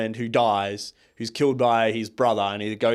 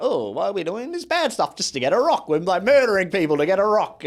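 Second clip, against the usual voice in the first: higher-pitched, exasperated retelling of a complaint; a lightly voiced, higher mock protest; mock Wolverine protest; 7 semitones higher, 4 dB louder than usual. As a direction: play a hero whining about a rock, pitched up. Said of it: "he's like".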